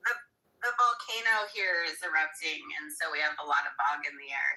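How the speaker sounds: slightly hoarse from the fog. Real, not acted. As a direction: speak with a rough, hoarse throat. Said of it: "she sounds kinda hoarse".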